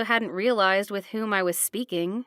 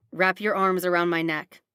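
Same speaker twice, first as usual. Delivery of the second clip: gruff instruction; 5 semitones lower than usual. Acted. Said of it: "he instructs".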